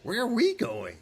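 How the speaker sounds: high, pestering goblin. Acted. Goblins asking their leader where they go, goblin voice. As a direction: squeak it out as anxious goblin followers. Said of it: "goblins are like".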